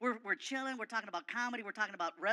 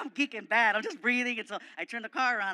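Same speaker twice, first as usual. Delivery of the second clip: normal talking voice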